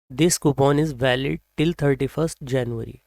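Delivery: very slow, with a lift on This; slow example sentence. Shown as a demonstration. Teacher reading an example sentence slowly to the class. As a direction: read it out word by word. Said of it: "reads example sentence slowly".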